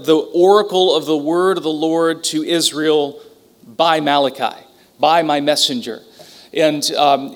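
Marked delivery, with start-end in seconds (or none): 0.0-6.0 reading scripture aloud. Acted. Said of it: "the way the emphasis here".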